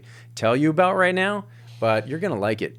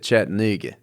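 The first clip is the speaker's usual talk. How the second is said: drawled Southern Chattanooga, vowels swallowed; Southern accent; 4 semitones lower than usual. Retold or imitated. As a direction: say Chattanooga like a Tennessee local. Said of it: "Chattanooga is my favorite word you can say in that Southern accent".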